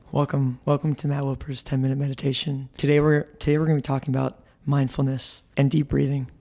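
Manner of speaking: calm, soothing meditation intro; meditation coach voice. Pretend. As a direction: welcome them like a meditation guide. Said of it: "a meditation coach or something".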